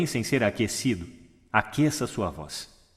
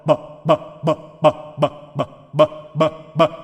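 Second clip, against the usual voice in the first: louder, higher popped bo and ba syllables; lip warm-up syllables; 4 semitones higher, 5 dB louder, much slower than usual. Shown as a demonstration. Coach leading audience lip warm-up, popped syllables. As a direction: pop the lips on each syllable. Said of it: "vamos aquecer os nossos lábios".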